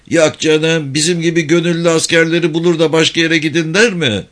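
high, quick rustic character voice; high-voiced country soldier objecting; incredulous villager. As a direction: protest in disbelief, pitched well up. Haceli objecting in argument with Mahmut.

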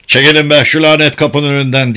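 loud angry shout at the crowd. Acted. Someone outside yelling to clear the door, loud. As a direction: bellow it to clear the doorway. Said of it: "diye bağırdı biri".

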